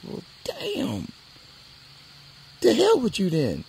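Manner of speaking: loud, wounded brush-off; sore dismissal. Retold or imitated. Rejected boy brushing off the girl, loud and sore. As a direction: tell her off, hurt and loud.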